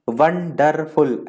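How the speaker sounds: वंडरफुल broken into three slow, separate pieces; वंडरफुल with a clear break between each syllable. Shown as a demonstration. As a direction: say वंडरफुल in chunks, won - der - ful. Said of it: "ऐसे अलग-अलग टुकड़ों में बोलते हैं".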